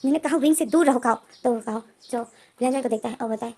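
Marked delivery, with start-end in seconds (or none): 0.1-1.2 screaming. Retold or imitated. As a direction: drag out a furious warning. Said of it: "लेनजेन चीख कर बोलता है". (लेनजेन चीखकर काओ को विंग से दूर रहने को कहता है)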